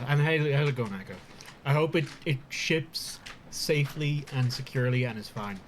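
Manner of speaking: talking through a mouthful; chewing while talking; mouth full. Real, not acted. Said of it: "talking with my mouth full".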